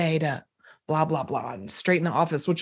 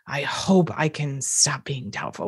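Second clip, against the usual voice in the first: weak, unsure hope; 4 semitones lower, 4 dB quieter than usual. Shown as a demonstration. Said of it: "I'm trying, literally trying to say".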